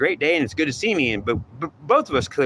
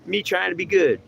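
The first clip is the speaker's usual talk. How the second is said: affronted greeter; 7 semitones higher than usual. Acted. Acted quarrel, greeter.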